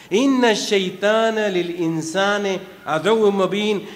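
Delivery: fast, measured Quranic recitation; quick devotional recital of scripture. Acted. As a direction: recite the verse in flowing Arabic cadence. Recites verse.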